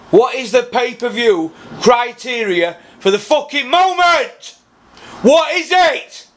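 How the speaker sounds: a mock interviewer losing patience, pitched high; exasperated mock yell. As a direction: voice jumps up, pressing hard for an answer. Mock-grilling Eddie Hearn.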